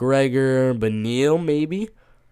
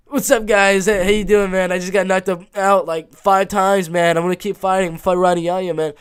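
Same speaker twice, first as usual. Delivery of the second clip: half-hearted mock fighter voice, a touch raised; Cody Garbrandt; 4 semitones higher, 4 dB louder than usual. Fighter talking to his kid and friends, badly imitated Cody Garbrandt. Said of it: "Cody Garbrandt talking to his kid and his friend's impression".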